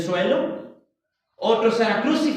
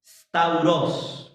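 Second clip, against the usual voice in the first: Stauros with the accent on the O; low, careful Stauros accented on the final O; stress on final syllable; 5 semitones lower than usual. Shown as a demonstration. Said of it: "con acento en la O".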